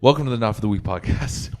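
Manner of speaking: loud, announced show welcome; podcast intro. Real, not acted. Host finally starting the podcast, loud announcer welcome. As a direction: project the show opening to the listeners.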